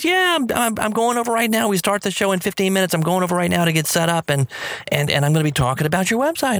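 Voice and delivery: retelling her hurried excitement; excited rush. Retold or imitated. Peggy rushing off to her radio show, excitedly. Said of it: "She says".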